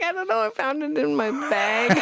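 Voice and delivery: mock excuse. Acting out a made-up excuse.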